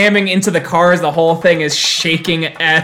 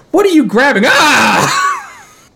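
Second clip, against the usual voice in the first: startled high shout; shopkeeper yelling; 12 semitones higher, 3 dB louder, slower than usual. Acted. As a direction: yell at the grabbing customer.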